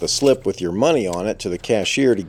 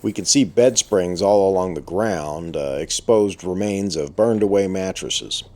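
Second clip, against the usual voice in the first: through a respirator. Real, not acted. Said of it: "breathing through the respirator I'm wearing".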